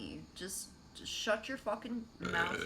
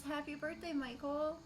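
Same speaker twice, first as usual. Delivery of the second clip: Porco voice; 7 semitones higher than usual. Retold or imitated. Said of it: "Porco says".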